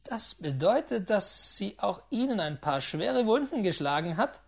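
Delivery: the gambler laughing at Mr Astley's wounds; involuntary laugh. A narrator's reading. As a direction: burst out laughing as you ask. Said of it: "lachte ich unwillkürlich auf".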